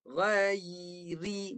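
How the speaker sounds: "Ghairi" drawn out, y held before ri; tongue up, then down. Shown as a demonstration. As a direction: hold the y in "Ghairi", then drop to ri. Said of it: "Baru turun".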